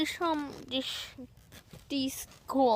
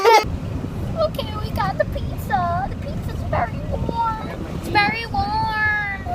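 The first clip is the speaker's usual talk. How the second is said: excited; 9 semitones higher, 4 dB louder, slower than usual. Real, not acted. Excited about the pizza.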